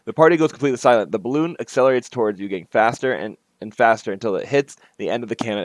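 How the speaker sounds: lively game-text read-aloud; story narration. A narrator's reading. Player reading out the party scene under the bridge, story narration. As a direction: read the scene out to set the stage.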